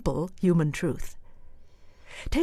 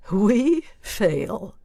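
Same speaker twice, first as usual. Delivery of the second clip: dry mocking rise on we; sarcastic; 3 semitones higher than usual. Shown as a demonstration. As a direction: say it with a sneer.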